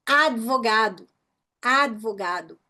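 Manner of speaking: 'advogado' with the D sounded; audible mute D. Shown as a demonstration. Teacher proving mute consonants sound, D voiced in 'advogado'. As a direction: let the D of 'ad' be heard before the V. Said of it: "O D e o B tão aí".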